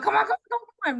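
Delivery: high, loud come on chant; egging on. Retold or imitated. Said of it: "egging him on".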